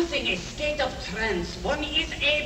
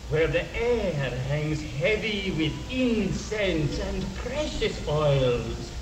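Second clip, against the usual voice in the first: hypnotic; 3 semitones lower, slower than usual. Acted. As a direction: lull her into a trance. Hypnotist inducing trance with imagery.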